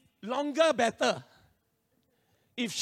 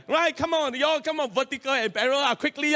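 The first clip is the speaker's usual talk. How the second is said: higher, urgent self-prodding; hurried urging; 3 semitones higher, 4 dB louder than usual. Retold or imitated. Learner hurrying through vertical and parallel parking, urgent. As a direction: hustle everyone along.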